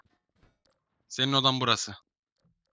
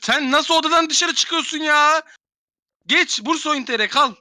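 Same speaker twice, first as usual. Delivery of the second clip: loud, slow, high indignant question; exasperated; 10 semitones higher, 4 dB louder, slower than usual. Real, not acted. Streamer scolding a player who left, loud and slow. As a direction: demand it in slow disbelief.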